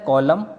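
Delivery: कॉलम ending on M; silent final N. Shown as a demonstration. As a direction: say कॉलम with no N after the M. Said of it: "एन silent रहेगा".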